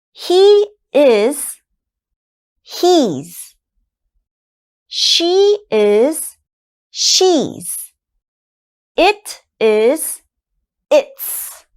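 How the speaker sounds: full form then contraction, each said loud and slow; loud drilled contractions. Shown as a demonstration. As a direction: drill each pair clearly for the class. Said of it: "So I am becomes I'm".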